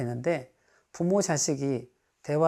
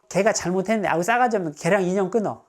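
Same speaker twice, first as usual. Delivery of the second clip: lightly dismissive; 4 semitones higher, 4 dB louder, faster than usual. Shown as a demonstration. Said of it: "약간 가볍게 듣는 느낌".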